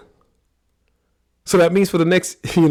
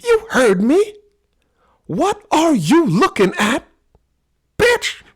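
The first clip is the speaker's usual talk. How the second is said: high, loud taunting voice, much higher and louder; mock challenge; 12 semitones higher, 6 dB louder, slower than usual. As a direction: taunt her loudly in a high pitch. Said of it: "My wife was like".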